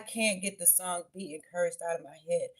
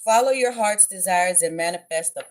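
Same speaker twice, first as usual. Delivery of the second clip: emphatic; 7 dB louder than usual. Shown as a demonstration. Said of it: "manifest the heck out of your life".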